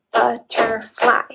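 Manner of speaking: "butterfly" slowly in three separate beats; slow sounded-out "butterfly"; syllable by syllable. Shown as a demonstration. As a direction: break "butterfly" into but, ter, fly. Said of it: "and then last part".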